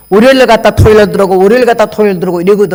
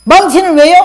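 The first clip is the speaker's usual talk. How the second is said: higher, louder shocked question; retold surprise; 7 semitones higher, 4 dB louder than usual. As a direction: ask in alarm. Asking why the hammer. (높고 큰 놀란 질문)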